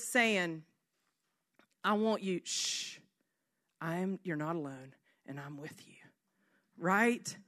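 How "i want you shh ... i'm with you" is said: gentle hush. Pretend. Voicing God's gentle hush.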